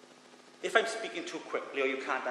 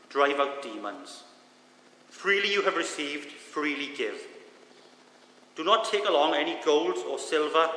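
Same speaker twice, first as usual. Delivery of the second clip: scripture reading. Acted. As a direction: read the passage with weight. Reads scripture aloud.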